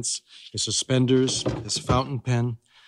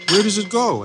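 put-on high innocent child; little girl voice; 9 semitones higher, 5 dB louder than usual. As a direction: ask it like a curious girl. Child Molly asks.

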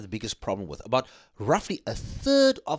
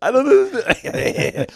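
high laughing mock tearfulness; mock emotional laughing; 8 semitones higher, 7 dB louder than usual. Teased by cohost, high laughing mock tears. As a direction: laugh through a fake teary plea. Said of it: "He's just very emotional right now".

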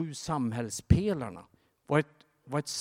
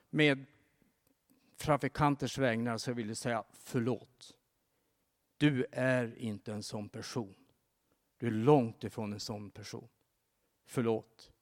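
slow, softer, sincere apology; gentle apology; 2 semitones lower, 3 dB quieter than usual. Retold or imitated. Bruce Wilkinson apologises to the stranded man, gentle apology. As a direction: soften and slow down to comfort him.

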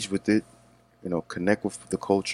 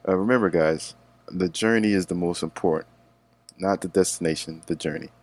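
mock motivational speaker. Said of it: "a motivational speaker".

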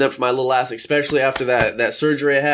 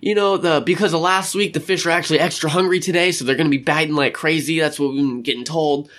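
upbeat warden; 3 semitones higher than usual. Retold or imitated. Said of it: "they tell them, like".

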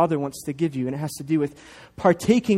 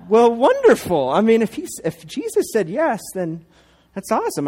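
mock delighted; 5 semitones higher than usual. Dad answers son's prayer claim.

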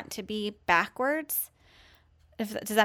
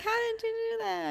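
surprised; 13 semitones higher, 6 dB quieter than usual. Retold or imitated. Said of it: "She's like".

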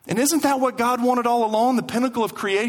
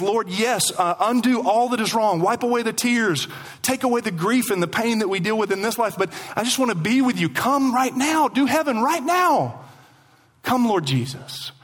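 pleading prayer. Acted. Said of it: "What they're praying is".

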